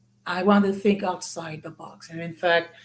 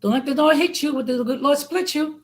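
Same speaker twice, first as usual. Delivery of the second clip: sassy saying; 7 semitones higher than usual. Shown as a demonstration. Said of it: "all I'm gonna say is".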